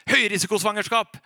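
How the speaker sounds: a sudden loud, blunt verdict; abrupt, loud doctor's warning. Retold or imitated. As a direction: blurt the diagnosis out loudly. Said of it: "bardus med høy stemme".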